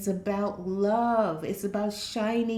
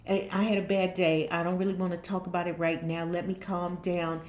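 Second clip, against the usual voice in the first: kind and calm; 4 semitones lower than usual. Retold or imitated. Husband telling his girl he had a bad day, gentle. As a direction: ask for space tenderly. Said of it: "a very kind way".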